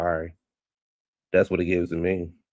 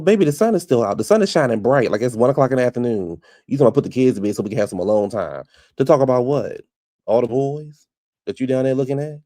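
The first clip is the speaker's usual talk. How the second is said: incredulous rant; 2 semitones higher, 5 dB louder than usual. Retold or imitated. Her thoughts on going to bed.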